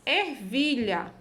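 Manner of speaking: Ervilha said slowly, first syllable "er" held; Ervilha, syllable by syllable for learners; highlighted syllable. Shown as a demonstration. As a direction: draw out the ER in Ervilha. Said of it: "observe a sílaba destacada".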